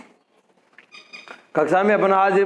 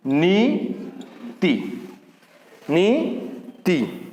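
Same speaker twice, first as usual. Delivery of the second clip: नीति drawn out very slowly and softly; slow clear demo; 4 dB quieter, much slower than usual. Shown as a demonstration. Teacher spelling out the word for students, very slow and soft. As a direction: stretch each sound of नीति. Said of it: "जबकि क्या होगा?".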